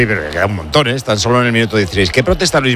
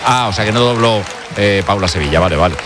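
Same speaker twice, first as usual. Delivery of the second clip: ordinary delivery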